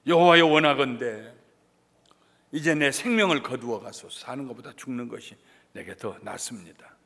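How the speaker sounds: loudly cried-out plea, easing off; desperate prayer. Acted. Jonah begging God to take his life, loud plea. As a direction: cry out to God, then let it sink.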